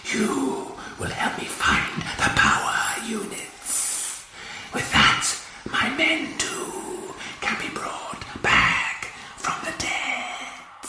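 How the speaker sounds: cold menacing whisper; alien hiss. A narrator's reading. Ice Warrior demanding power units, menacing hiss.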